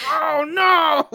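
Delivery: high mock dismay through laughter; laughing mock dismay. Retelling a friend slipping on marbles, high laughing dismay.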